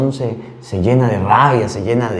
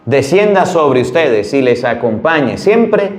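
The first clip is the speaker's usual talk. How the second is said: slow, raised solemn benediction; priestly blessing; 5 semitones higher, slower than usual. Acted. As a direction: bless the congregation, slow and lifted. Priest gives final blessing. (bendición sacerdotal solemne y pausada)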